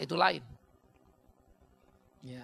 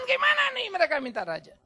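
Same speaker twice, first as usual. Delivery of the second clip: higher plaintive complaint; complaining Samuel; 13 semitones higher, 3 dB louder than usual. Acted. Samuel complains to God, higher plaintive whine. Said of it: "Ngelapor sama Tuhan".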